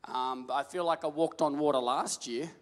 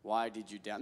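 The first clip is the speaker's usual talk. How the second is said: gentle rebuke; 8 semitones lower, 8 dB quieter than usual. Shown as a demonstration. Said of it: "Let's have a conversation".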